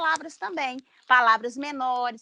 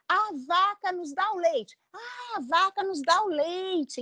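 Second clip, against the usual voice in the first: put-on childlike answer; 7 semitones higher than usual. Shown as a demonstration.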